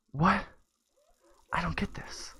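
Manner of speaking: put-on high-pitched baffled kid; dumbfounded boy. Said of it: "like, dumbfounded".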